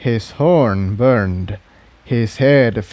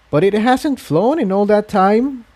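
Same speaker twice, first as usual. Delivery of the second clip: low voice; 10 semitones higher than usual. A narrator's reading. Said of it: "her voice low".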